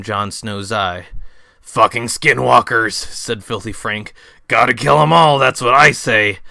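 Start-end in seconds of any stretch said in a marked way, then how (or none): 1.6-6.4 Filthy Frank voice. Acted. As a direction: play Frank offering the baptism. Frank cursing.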